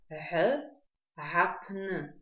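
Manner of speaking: throaty fricative Г, then гапн starting with it; абазинское произношение. Shown as a demonstration. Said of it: "на абазинском языке гапн". (гортанное абазинское «Г, гапн»)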